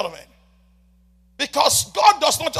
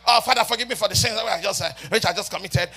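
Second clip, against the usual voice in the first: sarcastic prayer. Retold or imitated. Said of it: "you say with sarcasm".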